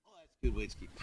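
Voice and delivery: ordinary delivery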